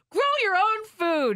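high, emphatic mock advice; a hint of a preachy health nut; mock earnest advice. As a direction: chirp it like a too-keen farmer. Quoting herself as extreme.

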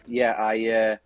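rough, gravelly voice; gruff gravelly voice, a bit hoarse. Real, not acted. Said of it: "I don't sound good".

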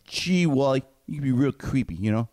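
put-on a light Beaver kid voice; lightly voiced boyish Beaver; Beaver impression. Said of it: "can I do my Beaver impression".

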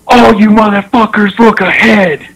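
high, forceful mock holler; intense coach imitation. Coach opening a speech to the whole team, mock holler. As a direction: command the room like a hard coach. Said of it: "he was just intense like that".

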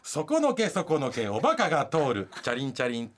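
mock poetry recital, each line starting up; parody haiku. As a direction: declaim it like a classic verse. Recites parody haiku of Kobayashi Issa.

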